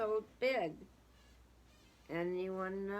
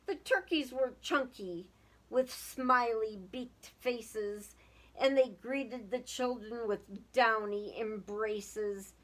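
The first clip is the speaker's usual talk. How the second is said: lively storybook reading aloud; sing-song children's story voice; 4 dB louder than usual. A narrator's reading. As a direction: read it like a rhyming picture book to kids. Reading a picture book aloud.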